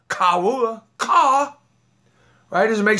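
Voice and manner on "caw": a high, clipped imitation of a crow's "caw". Shown as a demonstration. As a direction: caw it out like a crow. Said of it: "a crow makes a caw sound".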